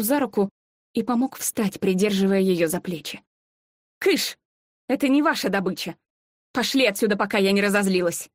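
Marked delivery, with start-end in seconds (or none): 4.0-8.3 commanding female voice; stern woman shooing. Acted. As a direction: drive the creatures off. Woman shoos monsters away. (властный женский окрик)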